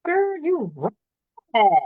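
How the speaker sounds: excited praise. Real, not acted. Host praises guest's intro.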